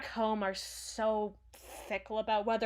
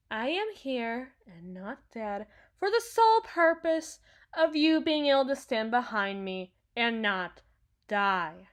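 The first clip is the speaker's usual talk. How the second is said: raised, forceful declaration; emphatic insistence; 5 dB louder than usual. Acted. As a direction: drive the point home loudly. Insisting on their only purpose.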